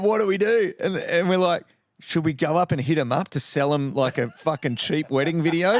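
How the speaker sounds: high, giggly what-now; laughing panic. Retold or imitated. Two mates panicking after the wrong wedding, giggly.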